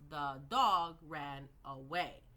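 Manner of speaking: slow, word by word. Shown as a demonstration. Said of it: "how many individual sounds".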